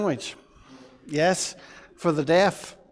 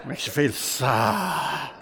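sad; 2 semitones lower, much slower than usual. Shown as a demonstration. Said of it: "This is your mother shouting at you".

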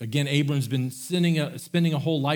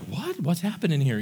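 a sudden, much higher "What?" in mock alarm; shocked little brother; 3 semitones higher than usual. Younger son Josh hears the oldest claims everything, startled and high. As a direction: jump up in pitch like a startled kid. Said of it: "And Josh is like".

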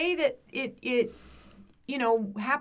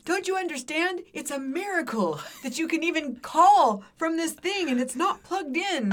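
higher, exasperated mock rant; Louis C K rant; 5 semitones higher than usual. Retelling a comedian's skit about phones, mildly ranting. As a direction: imitate a comic insisting on the marvel. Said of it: "he just went off on this thing".

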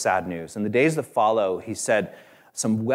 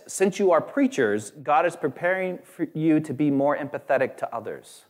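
mock pious reasoning; 5 semitones higher than usual. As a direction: lift it like a sermon cliche. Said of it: "Some people even said this".

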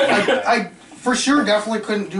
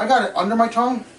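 mouth burning from spicy food; 4 semitones higher than usual. Real, not acted. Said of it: "my eyes are watering".

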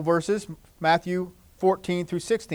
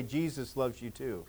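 soft spoken; 6 semitones lower, 13 dB quieter than usual. Shown as a demonstration. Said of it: "look at somebody else and say".

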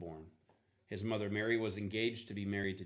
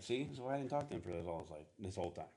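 mock exasperated God; 5 semitones lower, 7 dB quieter, faster than usual. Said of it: "But that's me, that ain't him".

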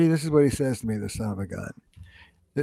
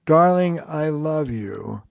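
soft power; slower than usual. Shown as a demonstration. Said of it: "what I call soft power".

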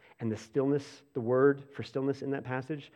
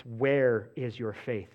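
gentle invitation; 4 semitones lower, slower than usual. Shown as a demonstration. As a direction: invite them kindly to think. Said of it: "That's not the tone here".

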